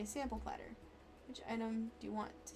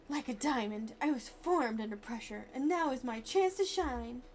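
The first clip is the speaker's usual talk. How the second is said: dramatic boast; 5 dB louder than usual. Acted.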